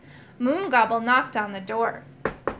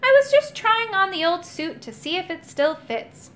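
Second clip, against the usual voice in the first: higher, chatty cheerfulness; jolly, lifted old knight; cheerful; 7 semitones higher than usual. A narrator's reading. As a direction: explain cheerily. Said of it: "said the Rusty Knight cheerfully".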